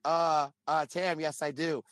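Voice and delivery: put-on hesitant, caught-off-guard answer; freezing up. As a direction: stammer a mock nervous yes. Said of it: "everybody was, like, freezing".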